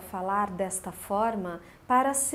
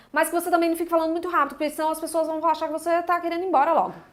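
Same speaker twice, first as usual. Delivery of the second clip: mock hurried speech, fast, high and loud. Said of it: "Eu nem sei falar rápido desse jeito".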